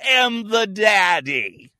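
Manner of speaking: slow, shouted and high hammed-up protest; mock indignant shout. Claiming he alone hands out gold stars, in a slow mock cry-shout. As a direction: bellow it like a wounded tyrant, half crying. Mock-declaring himself the daddy.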